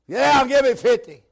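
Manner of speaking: loud, high, slow bark; drill sergeant shout. Retold or imitated. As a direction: bark it at a recruit. Drill sergeant orders push-ups.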